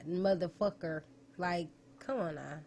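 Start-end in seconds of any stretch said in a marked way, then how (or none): 0.1-1.0 "motherfucker" with each syllable sounded; mock careful "motherfucker", full -er ending; over-pronounced mimicry. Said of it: "do not have to pronounce every fucking syllable".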